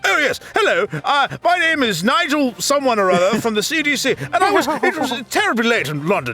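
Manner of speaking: mock British accent. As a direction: ham up a posh British caller until the laugh wins. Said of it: "there's just this one episode where it's like".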